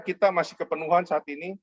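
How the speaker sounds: ordinary delivery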